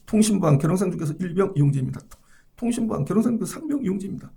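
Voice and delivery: rattled-off fast radio operator call; fast, drilled phone answer; korean military style. Retold or imitated. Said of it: "전화기를 머리맡에 딱 두고 자는데".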